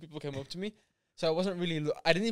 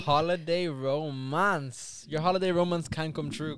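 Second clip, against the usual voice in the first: announcer voice; 6 dB louder, slower than usual. Pretend. Announcing holiday romance to listeners.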